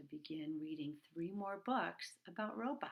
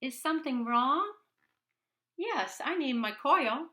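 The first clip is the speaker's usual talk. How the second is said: character voices; 7 semitones higher, 9 dB louder than usual. Acted. Boy and robot talk.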